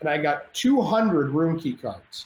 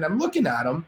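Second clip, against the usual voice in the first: normal talking voice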